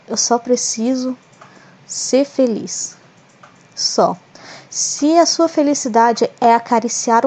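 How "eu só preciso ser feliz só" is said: slow, soothing, drawn-out words; calm self-affirmation. Shown as a demonstration. Host coaching listeners to breathe and say it calmly. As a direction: say it slowly as a calming mantra. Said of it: "e diz assim".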